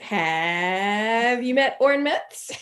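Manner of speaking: slow, drawn-out smooth pickup line; a light smug sitcom charmer; Barney Stinson. Retold or imitated. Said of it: "It was very Barney St".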